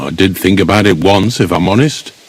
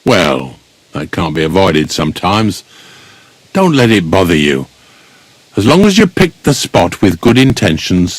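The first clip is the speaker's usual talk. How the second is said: lower-pitched, calming consolation; gently reassuring; 4 semitones lower than usual. Acted. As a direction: comfort a bereaved lad. Gravedigger consoles bereaved young lad.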